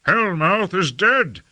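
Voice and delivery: high, slow, drawn-out outcry; high-pitched dramatic lament; anguished cry. A narrator's reading. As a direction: cry out the disaster, stretching each word. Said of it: "cried Lord Fayed".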